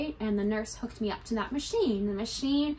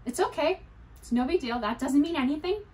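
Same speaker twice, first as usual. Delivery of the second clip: self-reassuring; 4 semitones higher than usual. Retold or imitated. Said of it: "I'm trying not to panic".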